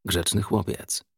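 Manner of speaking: soft, slow, menacing praise; hushed, unhurried approval. A narrator's reading. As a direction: drop softly and take your time. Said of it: "zniżając głos".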